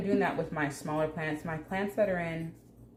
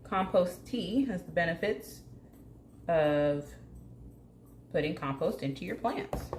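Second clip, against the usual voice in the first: a hint of a game show host, slow and emphatic; 3 semitones higher, 4 dB louder, slower than usual. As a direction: sell it like a TV host. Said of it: "Sound like a game show host".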